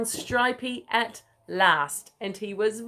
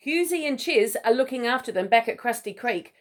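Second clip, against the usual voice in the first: sheepish; 3 semitones higher than usual. Acted. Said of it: "Crikey told her sheepishly".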